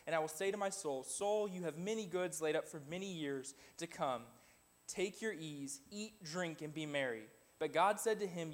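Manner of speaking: scripture reading. Acted. Reads scripture passage aloud.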